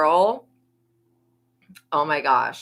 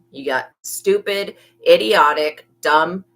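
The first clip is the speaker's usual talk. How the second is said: each insult louder than the last; escalating insults; 6 dB louder than usual. Real, not acted. Reader piling insults on the schemers, getting louder. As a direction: hammer the insults one after another. Listing insults with rising force.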